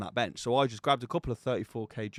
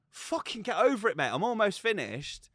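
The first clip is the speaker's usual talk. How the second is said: retold irritation; 7 semitones higher than usual. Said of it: "I was going ballistic".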